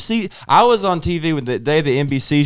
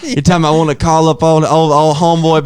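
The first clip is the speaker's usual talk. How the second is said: worked-up rant; 6 semitones higher, 3 dB louder than usual. Real, not acted. Excited rant about begging.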